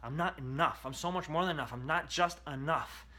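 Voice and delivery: slow, emphatic self-talk; a model mantra spoken slowly; slow recital. Shown as a demonstration. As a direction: spell it out slowly to yourself. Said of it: "I want you literally to say that to yourself".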